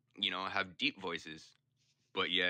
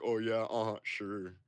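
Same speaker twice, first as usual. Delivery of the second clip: sarcastic disbelief; 3 semitones higher, 5 dB louder than usual. Retold or imitated. Taunter sarcastic.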